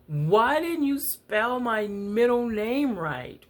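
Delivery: put-on high, tearful child's complaint, slow; a small girl sobbing at her mom; crying child. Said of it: "I was crying real tears".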